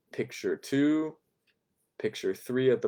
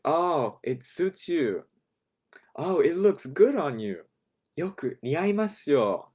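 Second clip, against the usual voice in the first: gushing clerk; 6 semitones higher than usual. Shown as a demonstration. Salesclerk gushing over customer's outfit.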